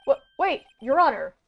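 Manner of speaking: earnest, slightly nervous hero voice; anime protagonist voice. Acted. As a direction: protest like a flustered young hero. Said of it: "I love doing this anime protagonist voice".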